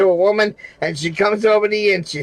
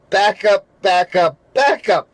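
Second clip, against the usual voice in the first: mocking Salty Rant. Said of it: "I'm making fun of Salty Rant there".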